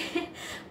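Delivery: breathless silent laugh; a soft unvoiced burst of laughter; real laugh. Real, not acted. Remembering the sweets story, she laughs under her breath. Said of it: "मुझे इतनी हंसी".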